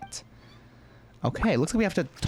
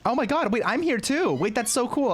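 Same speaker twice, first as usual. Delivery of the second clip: excited squeal; 10 semitones higher than usual. Real, not acted.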